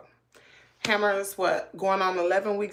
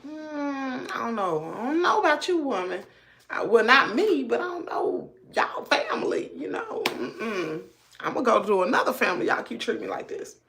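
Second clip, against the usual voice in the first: higher, sulky pouting puppy voice; voicing the dog; 4 semitones higher than usual. Owner speaks for her puppy, a higher sulky pet voice. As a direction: play the hurt puppy complaining about his family.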